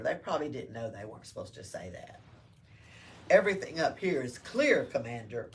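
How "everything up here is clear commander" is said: loud call up to the commander; yelling soldier. Acted. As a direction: shout the all-clear. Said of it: "one of them yelled".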